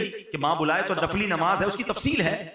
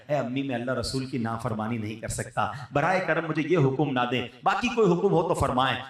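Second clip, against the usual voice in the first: gently refuse, with respect; a touch of humble pleading to mother; 5 semitones lower than usual. Retold or imitated. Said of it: "ہاتھ جوڑ کر کہنا ہے".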